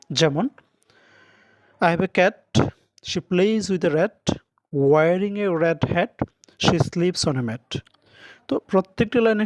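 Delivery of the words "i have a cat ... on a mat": slow and deliberate, leaning on each rhyming end; slow rhyme recital. Shown as a demonstration. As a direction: read the little rhyme slowly to show it. Reads rhyme example aloud.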